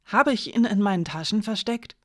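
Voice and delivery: high-pitched, mocking protest; indignant chamberlain. A narrator's reading. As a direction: ask it with theatrical indignation. Indignant chamberlain mocks the accusation.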